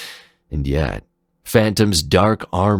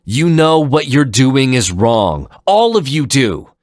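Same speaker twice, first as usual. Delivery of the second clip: high, louder urgent pleading; imploring plea; 9 semitones higher, 7 dB louder than usual. Acted. Zero implores the three guardians, urgent. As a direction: beg them to see it. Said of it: "he implored".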